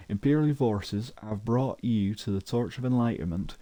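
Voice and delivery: a light put-on Yorkshire accent, proclamation style. Reading an imperial notice board aloud, in a mild Yorkshire accent. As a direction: read it out like a Yorkshire town crier, lightly. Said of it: "read that in a, uh, Yorkshire type accent".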